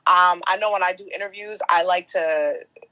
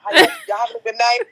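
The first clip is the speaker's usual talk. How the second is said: much higher, fast and louder, suddenly sweet; mock friendly Sam; 6 dB louder, faster than usual. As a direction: switch to cheery host. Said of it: "Then he looks at us".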